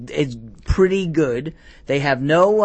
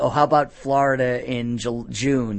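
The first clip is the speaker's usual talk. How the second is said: hint of a put-on Swedish accent; mock Swedish accent; 3 semitones lower than usual. Caller plays overheated players complaining about Florida in June, mock Swedish accent. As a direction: imitate a Swede in muddled, mixed-up accents. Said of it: "was that a Swedish accent you just did?".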